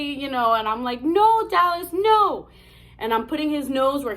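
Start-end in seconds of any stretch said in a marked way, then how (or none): 1.0-2.5 high, loud acted "no"; retold dog scolding. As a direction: re-enact telling off a dog.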